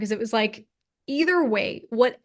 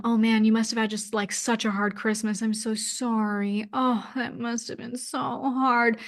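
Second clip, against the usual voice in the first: lightly mimicking syrupy pity; pitying nurse. Quoting the triage nurse's condolences, slow mock-pitying tone. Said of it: "inundated by this pity".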